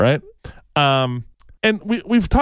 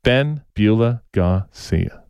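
slow, drawn-out sportscaster announcing a name; Howard Cosell impression; 5 semitones lower, much slower than usual. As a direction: announce the name like a veteran boxing commentator. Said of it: "I'll do it in my Howard Cosell voice".

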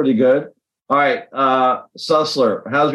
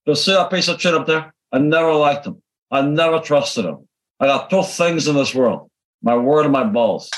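lightly voiced Scarface accent; a hint of Tony Montana's accent; Scarface impression; 2 semitones higher than usual. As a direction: quote it like Scarface, half in character. Quoting Scarface after naming it.

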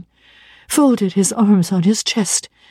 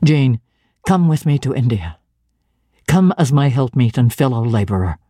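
a touch lower, firm missionary zeal; lightly voiced stern minister; 5 semitones lower than usual. St. John lays out his calling to Jane, lightly lower and firm.

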